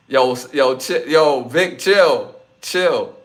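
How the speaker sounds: loud, hurried yo chill to Vic; calling out to calm. Real, not acted. Streamer calls out to Vic to chill, loudly. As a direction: call him down before it escalates.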